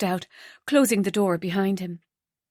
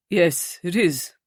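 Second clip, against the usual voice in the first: hesitant; 2 semitones lower than usual. A narrator's reading. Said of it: "after a moment's hesitation".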